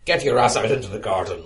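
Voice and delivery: loud bellow across the garden. Acted. Narrator bellowing at wife to come outside. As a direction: bellow it out to the house. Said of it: "I bellowed".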